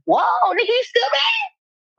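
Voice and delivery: squealing high with laughter, slow, near a shout; mocking laugh. Teasing her still-angry ex, laughing high. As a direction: laugh right at him as you ask. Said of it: "mocking her ex's grudge".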